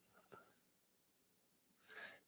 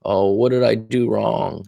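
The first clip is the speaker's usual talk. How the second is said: mock anxious pleading; slower than usual. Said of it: "be all like".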